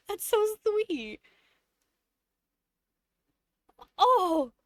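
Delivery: drawn-out, grateful cooing; really moved, savor the thanks; touched, near tears. Real, not acted. Streamer moved by a viewer's generosity, tearfully grateful. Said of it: "I might actually start crying".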